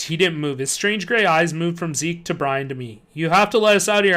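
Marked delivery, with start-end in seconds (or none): 3.1-4.2 insisting. Acted. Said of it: "I insisted".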